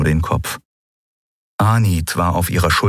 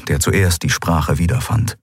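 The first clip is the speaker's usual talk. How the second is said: usual speaking voice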